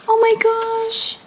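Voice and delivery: high, slow squeal of delight; very high, drawn-out oh my gosh. Real, not acted. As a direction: squeal it out, thrilled. Opens a tiny pop-up card.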